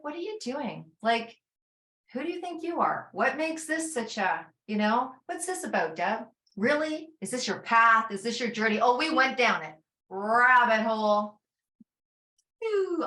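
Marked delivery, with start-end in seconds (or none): 0.0-8.8 mocking inner critic. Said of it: "this thing's like".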